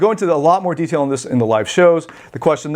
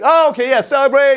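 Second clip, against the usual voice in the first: high-pitched, eager mock agreement; acted celebrating; 10 semitones higher than usual. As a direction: catch on and switch into pretend cheer. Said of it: "It's like celebrating".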